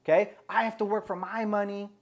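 mildly heated mock indignation; retold heated. Woman arguing with the friend about begging, retold as mildly heated. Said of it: "she starts getting all heated".

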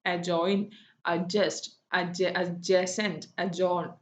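"അജോയിൻ", "അഡ്ജസന്റ്", "അജോൺ" with no d heard before the j; silent D. Shown as a demonstration. Teacher listing silent D words, "അജോൺ" without the d. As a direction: run straight into the j in "അഡ്ജസ്റ്റ്". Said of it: "ഡി silent ആയിട്ടുള്ളത്".

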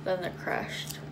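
thin film over teeth; slightly muffled teeth sounds; whitening strips on teeth. Real, not acted. Seen 0: Applied at -2.0; teeth covered, pressed on at 6.8; peeled off at 28.7.

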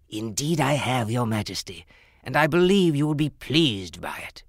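formally addressing royalty. Acted. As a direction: present the crown with a bow. Jeweler presents the crown.

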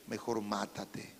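slow, soft, menacing whisper of a tempter; a slow low murmur, like a dark temptation; hushed sinister voice. Retold or imitated. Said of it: "¿Y sabe qué me decía?". (voz baja, lenta y siniestra del tentador)

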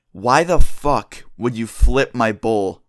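put-on slow, hard friend confronting the kid; angry demand. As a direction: drag out an angry question at the culprit.

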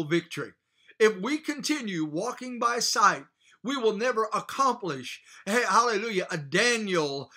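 rising, ringing sermon delivery, pushing each phrase; fervent preaching. Acted. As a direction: preach it full force to the congregation. Preaching to congregation.

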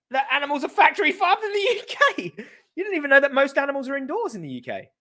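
can't believe what he's hearing; mocking disbelief; incredulous rant. Real, not acted. Incredulous ranting.

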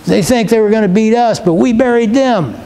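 imagined boast over beaten enemies; mock gloating. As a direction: lightly play the smug victor. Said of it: "There's no gloating".

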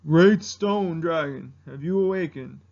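slow, low, solemn elder; first ancestor. Acted. Ancestor calling great stone dragon, slow solemn impersonation. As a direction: summon the sleeper ceremoniously. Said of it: "and the first ancestor from Mulan".

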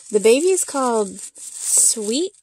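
high, slow sing-song announcement; cutesy voice. Real, not acted. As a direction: present the name sweetly.

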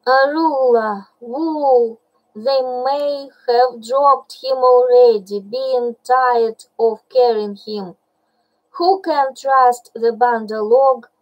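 mild hammed-up wail of a bear; a touch of theatrical despair; moaning lament. Baloo bewailing lost Mowgli, mock moaning. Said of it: "rolled to and fro moaning".

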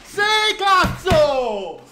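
high, loud explosive yell; goal celebration. Real, not acted. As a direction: scream with joy at the goal.

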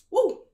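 steadying exhale. Real, not acted. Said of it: "now I'm about to cry".

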